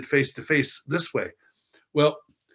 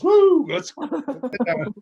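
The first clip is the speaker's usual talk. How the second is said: high, loud drawn-out whoop; imitated nurse whoop; 10 semitones higher, 5 dB louder, slower than usual. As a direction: whoop first, then talk slowly and high. Nurse reacting to exposed gown.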